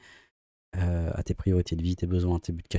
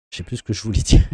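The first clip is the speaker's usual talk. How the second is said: laughing; 2 semitones higher, 8 dB louder, faster than usual. Real, not acted. Loses thread, laughs.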